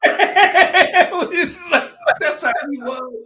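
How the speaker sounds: high, loud, slow laugh-through words; laughing hard. Real, not acted. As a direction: let the laugh swallow the line. Bursts laughing at the memory.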